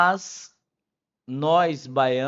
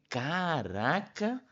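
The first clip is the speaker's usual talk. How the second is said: mock surprise; slower than usual. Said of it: "Eu falei".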